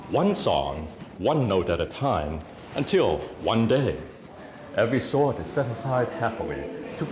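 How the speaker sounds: lilting spoken-word poem, swooping stresses; rhythmic verse in short lifted phrases; poetry recital. Acted. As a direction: perform it as uplifting live verse. Recites own poem to audience.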